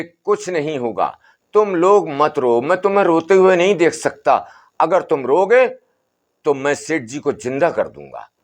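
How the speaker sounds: a hint of an old sadhu calming the family; Baba's voice. बाबा समझाता है. (बाबा की हल्की ऊँची, समझाती आवाज़)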